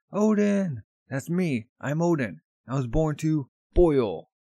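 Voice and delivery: high, loud boast, slowing at the end; proud loud boast. Retold or imitated. Odin boasts his name to the port town, loud proud call. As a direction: trumpet who you are.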